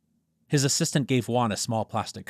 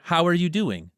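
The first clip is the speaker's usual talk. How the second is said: polite greeting; 9 semitones higher, 5 dB louder than usual. Acted. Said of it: "Juan greeted May's father politely".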